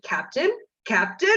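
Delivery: lightly imitated Batman call; mild mock shout, retelling a friend's Batman. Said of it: "in a Batman voice, he shouted".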